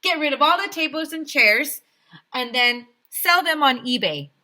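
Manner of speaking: high, loud eager plan; mayor getting carried away; excited mayor. A narrator's reading. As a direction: rush into the next cut. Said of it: "he said".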